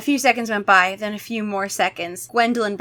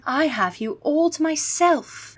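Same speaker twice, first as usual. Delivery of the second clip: higher, slow creepy voice; creepy vampire girl; 7 semitones higher, slower than usual. Acted. Gwendolyn gloating over her prey, slow and creepy. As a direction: savor the trap slowly. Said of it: "Gwendolyn replied in a whisper".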